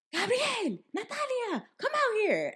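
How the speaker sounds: high, calling out across the house; angry mother summoning the kids; mamá llamando a los hijos; mom calling kids. Retold or imitated. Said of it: "So she's just like".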